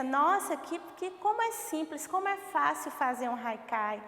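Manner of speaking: lightly acted "wow, so easy"; mock wonder at how easy it seems; imagined naive reaction. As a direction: voice a mildly impressed learner's thought, pitch lifting. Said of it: "A gente pensa".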